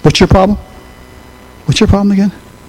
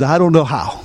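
quiet resolve; 11 semitones lower, 3 dB quieter than usual. Retold or imitated. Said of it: "he says".

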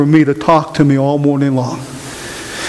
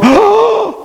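high startled oh; shocked church crowd gasping oh. Retold or imitated. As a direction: gasp it like the crowd did. Congregation gasps in shock.

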